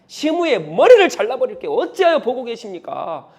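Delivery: loud, indignant soldier begging to strike; a general itching to behead the traitor; eager general. Acted. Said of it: "장군이 이런 말을 합니다". (분개하며 나서는 장군의 목소리)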